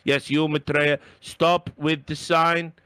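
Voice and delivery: slow, loud, exasperated mock producer; hammed-up official telling someone off; imitating ESL producer. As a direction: plead in stilted, laboured English. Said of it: "He's going".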